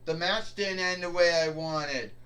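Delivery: mocking whine, loud on each oh; whining like a spoiled wrestler. Boss mocking the roster's complaints in a whiny voice. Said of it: "I am sick of your bitching and your ranting".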